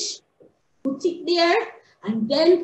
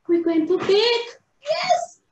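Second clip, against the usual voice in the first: excited cry; 7 semitones higher than usual. Real, not acted. Excited about baking.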